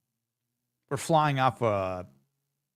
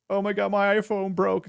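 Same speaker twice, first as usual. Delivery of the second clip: high, whiny moan over a broken phone; mock whiny complaint; 9 semitones higher, 5 dB louder than usual. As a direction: play it like a petty tragedy. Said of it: "someone's like".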